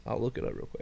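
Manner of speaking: muttered. Real, not acted. Mutters while searching phone.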